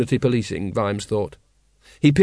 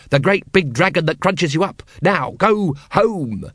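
raised voice, drawn out at the end; shouted; 4 semitones higher than usual. Acted. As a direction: order a child off, exasperated. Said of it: "shouted Vimes".

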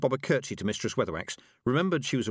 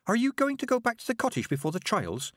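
put-on high, hesitant young girl; girl reporting to the witches; nervous girl; 13 semitones higher than usual. A narrator's reading. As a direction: stammer out the news shyly. Petulia asking.

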